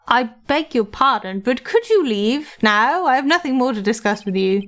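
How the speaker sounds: lightly voiced grand old gentleman; a hint of a self-important lawyer; pompous old lawyer. Old lawyer receiving a young visitor, lightly pompous.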